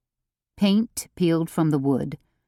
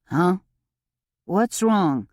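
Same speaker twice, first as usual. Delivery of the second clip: bewildered; 3 semitones higher, slower than usual. A narrator's reading. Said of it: "he asked in a bewildered tone".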